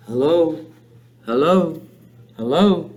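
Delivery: evenly repeated bird hello; spaced-out parrot greeting. A narrator's reading. Hidden parrot heard by the tense family, parrot voice. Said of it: "came the voice again".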